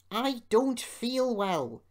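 put-on sickly moan; groaning. A narrator's reading. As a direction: drag it out as if feeling poorly. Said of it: "he groaned".

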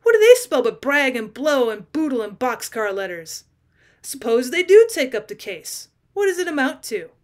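loud, scornful ranting; furious loud rant; vindictive rage. A narrator's reading. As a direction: rage at the papers, sneering. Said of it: "sullen and vindictive rage".

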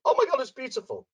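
high, fast gushing; breathless rapture; gushing delight. Retold or imitated. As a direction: swoon over the view. Kayla through rose-tinted glasses.

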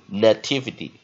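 "nativity" with an unstressed schwa in "na"; weak first vowel. Shown as a demonstration. Teacher demonstrating the weak vowel, "nativity" as nuh-TIV-ity. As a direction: reduce the first syllable of "nativity", stress TIV. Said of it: "第一个音节在一个弱母音".

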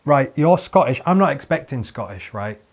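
mildly heated mock complaint; acted indignant telling-off; boiling indignation. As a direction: lay it out with comic exasperation. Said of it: "my blood was boiling immediately".

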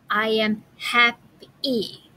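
slow, word by word "I am happy"; slow reading. Shown as a demonstration. Teacher reading the sentence back for children, slowly. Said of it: "write the sounds you hear".

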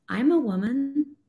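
imitating a seven-year-old daughter; child's voice. Little daughter voiced in a story.

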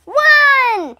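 high, loud countdown; shouted countdown. A narrator's reading. Principal shouting through cotton balls, loud countdown. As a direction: bellow each number. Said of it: "had to shout the numbers".

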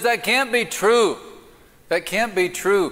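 a woman refusing to believe her duck is gone; high and insistent, denying the bad news; distraught lady. Lady voiced in joke.

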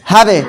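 হাবে with a bouncing echo on the stopped b; teacher sounding out হাবে with qalqalah; qalqalah demo. Shown as a demonstration. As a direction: release the closing b of হাবে in a short bounce. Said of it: "এরকমটা উচ্চারণটা হবে".

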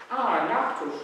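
gleeful frog spotting dessert; loud happy "Ah, Nachtisch"; delighted. Acted. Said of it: "freut sich Fritz".

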